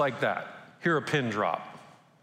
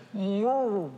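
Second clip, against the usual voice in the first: surprised whoa; 6 semitones higher than usual. Retold or imitated. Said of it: "So maybe he said".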